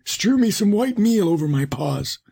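high put-on wolf voice, gliding down; wily wolf demanding. A narrator's reading. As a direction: demand a favour as a scheming wolf. Wolf orders the miller.

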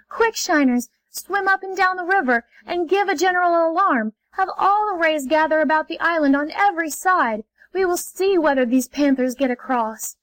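rally the shiners in a hurry; urgent call. Acted. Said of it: "called anxiously to the shiners".

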